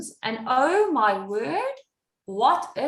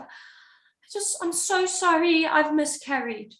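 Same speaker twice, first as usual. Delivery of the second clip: tearful; 5 semitones higher, slower than usual. Retold or imitated. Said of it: "and she's in tears".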